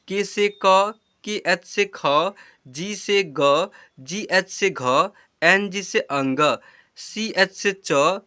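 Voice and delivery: slow, deliberate teacher dictation of letters; slow recitation. Shown as a demonstration. Teacher drilling children on the alphabet, slow and deliberate. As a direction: spell each pair out slowly, like a lesson chant.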